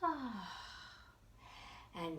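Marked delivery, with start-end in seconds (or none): 0.0-0.5 sigh. Acted. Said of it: "with a sigh".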